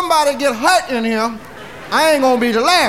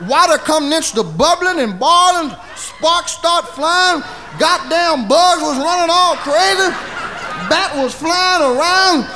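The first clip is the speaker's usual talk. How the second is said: building excitement; 4 semitones higher than usual. Retold or imitated. Telling friends the spell's wild climax, excited. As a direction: pump up the wild scene.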